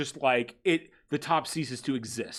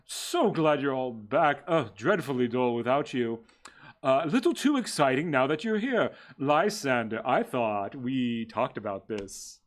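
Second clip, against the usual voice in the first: breathy vintage purr. Acted. GM voices Sebastian again.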